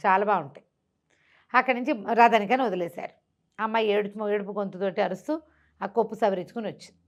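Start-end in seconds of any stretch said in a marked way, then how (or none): none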